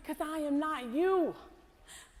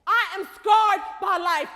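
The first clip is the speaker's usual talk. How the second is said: raised, defiant declaration; defiant shout; 3 semitones higher than usual. Acted. Scarred woman defying hope, raised and insistent.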